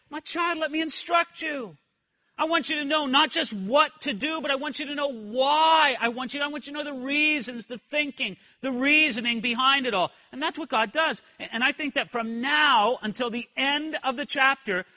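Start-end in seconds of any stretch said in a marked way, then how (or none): 0.1-10.1 voicing God. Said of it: "So often he says".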